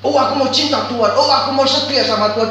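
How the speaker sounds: high, loud empty proclamation; loudly mocking hollow professions of love for God; mock pious shouting. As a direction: cry out your devotion like a tout hawking. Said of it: "cuma teriak-teriak toh".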